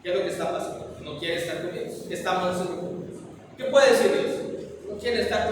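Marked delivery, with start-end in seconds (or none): 0.0-3.2 soft, hushed complaint from a rejected husband; husband quietly asking his wife why she pulls away; hurt husband asking. Retold or imitated. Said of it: "el hombre dice".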